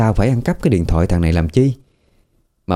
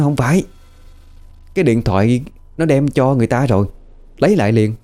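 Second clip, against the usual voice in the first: raised, higher pitched protest; yelling out loud; 4 semitones higher than usual. Retold or imitated. Possessed boy yelling at the adults to return the phone. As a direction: call out insistently like a feverish boy possessed. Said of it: "nó la làng".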